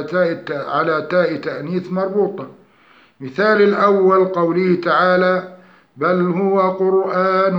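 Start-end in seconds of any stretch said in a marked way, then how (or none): 6.0-7.5 slow melodic tajweed chant; Quranic recitation. Shown as a demonstration. Tajweed teacher reciting an example verse slowly.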